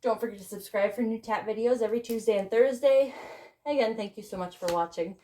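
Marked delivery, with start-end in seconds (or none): 3.7-5.2 breathless sign-off; winded after dancing; out of breath. Real, not acted. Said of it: "I'm out of breath".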